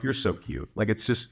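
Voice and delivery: low, affectionate teasing; amused, low-pitched fondness; playful teasing. Retold or imitated. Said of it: "I was smiling. I was laughing".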